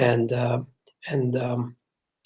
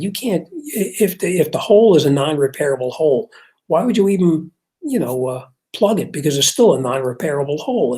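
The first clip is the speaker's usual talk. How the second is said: lost temper; 2 semitones higher than usual. Retold or imitated. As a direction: argue it hotly, voice jumping up. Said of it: "I didn't mean to lose my temper".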